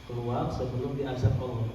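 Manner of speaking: low, soft warning to a spirit; hushed, low-pitched warning at normal pace; quiet command. Shown as a demonstration. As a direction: order it out calmly, without force. Demonstrates warning, first take.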